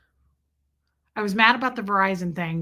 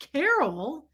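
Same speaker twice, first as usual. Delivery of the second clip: higher, questioning CAROL at normal volume; incredulous echo; 4 semitones higher than usual. Retold or imitated. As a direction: repeat the name in mock disbelief. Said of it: "I was like".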